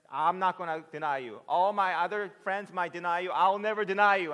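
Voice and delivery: loud, high, insistent vow; vehement protest. Acted. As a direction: declare it forcefully at full voice. Peter's vehement protest to Jesus.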